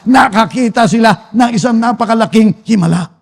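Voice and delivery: slow, stretched proclamation; preaching at full force. Real, not acted. Preacher proclaims the sea opening for the Israelites, full-force preaching. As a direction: draw out each phrase as it builds.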